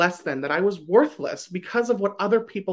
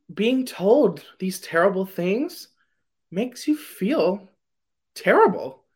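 choked up; slower than usual. Real, not acted. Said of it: "I'm getting a little choked up here".

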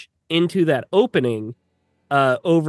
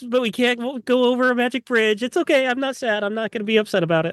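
mock sulky; 8 semitones higher than usual. Sulking over the rejected plan.

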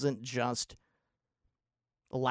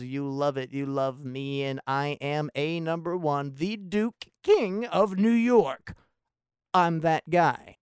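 bragging Ned; 2 semitones higher, 5 dB louder, slower than usual. Retold or imitated.

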